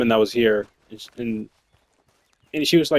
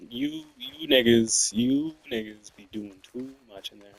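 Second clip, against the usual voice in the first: very high, slow drawn-out call to the coworkers; mock scolding; 9 semitones higher, 5 dB quieter than usual. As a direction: stretch it up high, mocking them.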